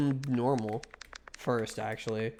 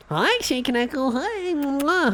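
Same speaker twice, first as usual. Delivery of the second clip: much higher, gushing hellos and a kiss; excited greeting; 10 semitones higher, 4 dB louder, slower than usual. Real, not acted. Streamer greeting two viewers, high gushing excitement. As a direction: squeal hi to your friends.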